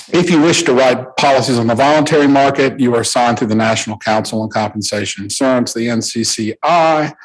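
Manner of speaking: quick run through technical terms; talking too fast. Real, not acted. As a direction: rattle off the explanation a bit too fast. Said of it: "I'm talking too fast".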